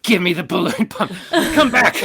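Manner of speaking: put-on high-pitched child calling out; loud, high kiddie demand; demanding little kid. Voices child demanding the pump.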